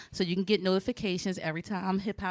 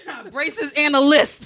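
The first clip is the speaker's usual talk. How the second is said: lisp; 5 semitones higher, 8 dB louder, slower than usual. Shown as a demonstration. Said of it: "between my braces and my lips".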